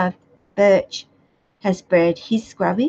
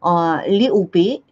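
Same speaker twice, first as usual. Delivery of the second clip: lightly put-on British "little"; British accent. Shown as a demonstration. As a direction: drop into Pommy for "little bit". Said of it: "that's where I got".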